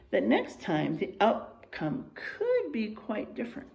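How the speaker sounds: put-on lively storybook reading for kids; reading to children. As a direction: read the bear facts like a story to the class. Reads picture book to class.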